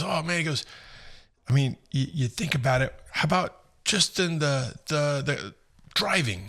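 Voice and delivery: imitating the British guy.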